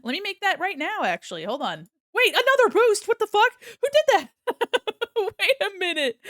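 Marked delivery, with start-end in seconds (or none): 2.1-6.2 surprised. Real, not acted. Another surprise boost.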